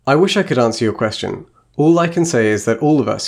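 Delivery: a lightly voiced, measured witch reading; reading the witch's speech. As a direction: read it like the wise witch queen. Reads Serafina's speech aloud.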